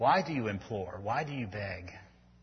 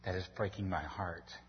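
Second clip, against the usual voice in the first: soft, quiet tender plea; Paul's tender plea to the Corinthians; heartfelt plea; 3 semitones lower, 8 dB quieter than usual. Retold or imitated. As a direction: say it like your heart is breaking. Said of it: "what the Apostle Paul is saying".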